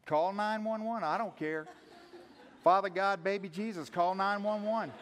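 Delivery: frantic, loud mock prayer for help; panicked prayer. Pastor acting out a panicked believer praying, loud and frantic. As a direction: beg God in a loud fake panic.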